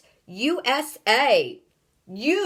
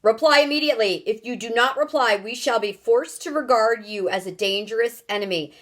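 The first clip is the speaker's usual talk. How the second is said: loud, raised threatening countdown; booming ultimatum; 3 semitones higher, 4 dB louder than usual. Acted. Houston threatens the strangers with freezing, booming ultimatum. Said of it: "boomed the voice".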